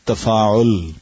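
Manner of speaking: تفاعل said carefully as "tafa'ul"; correct pronunciation. Shown as a demonstration. Teacher models the correct pronunciation for the student. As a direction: spell out تفاعل clearly as "tafa'ul". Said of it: "اس کی صحیح pronunciation ہوگی".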